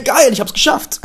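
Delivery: high laughing triumph; elated. Real, not acted. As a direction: laugh with pride at your own win. Triumph after fixing.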